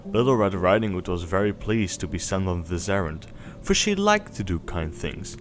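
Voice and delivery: gentle storybook reading voice; bedtime story narration. A narrator's reading. Parent reading Little Red Riding Hood to Snowball, storybook voice. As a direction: read it like a bedtime tale. Reads fairy tale to child.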